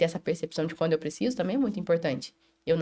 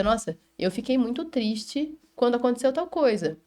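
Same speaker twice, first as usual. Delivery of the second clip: exemplo acolhedor; 4 semitones higher than usual. Shown as a demonstration. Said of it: "eu posso dizer".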